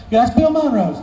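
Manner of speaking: high-pitched boss voice; Charlie. Acted. Boss telling the worker whose mandolin it is, high-pitched. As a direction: answer in a high caricature. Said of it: "high-pitched voice".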